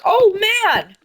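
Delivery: high cartoonish groaning oh man; mock defeated villain. Villain shown ketchup, high cartoon mock defeat. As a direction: whine it like a beaten baddie. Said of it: "and then he's like".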